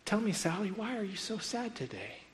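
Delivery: imitating a teacher, pitched high; high, coaxing question to a child; concerned teacher. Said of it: "the teacher begins to talk and says".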